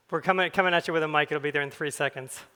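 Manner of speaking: loud and high across the room; calling out. Real, not acted. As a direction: call out to the back of the hall.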